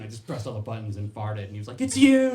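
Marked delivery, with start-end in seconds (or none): 1.8-2.3 much higher, much louder shout; accusing landlord. Retold or imitated. Landlord Brian realizing the farter, loud high accusing shout. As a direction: yell it in sudden realization.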